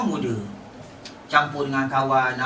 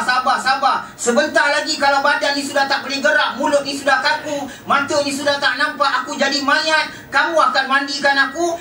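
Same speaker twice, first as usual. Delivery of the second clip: anguished dying imam; 10 semitones higher, 4 dB louder than usual. Retold or imitated. Dying imam's anguished retort.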